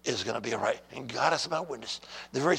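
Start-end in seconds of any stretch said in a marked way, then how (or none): 0.0-0.8 low, soft voice of God; clear divine reassurance. Retold or imitated. God speaks clearly to His son, low and reassuring. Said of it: "He spoke to me so clearly".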